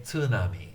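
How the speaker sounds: tsunami with a stressed syllable; wrong stressed tsunami; English stress. Shown as a demonstration. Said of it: "we wouldn't say".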